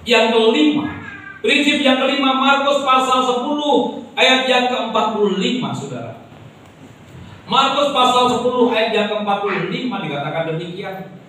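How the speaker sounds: impassioned pulpit proclamation; full-force preaching. Acted. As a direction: preach it with rising fervour to the congregation.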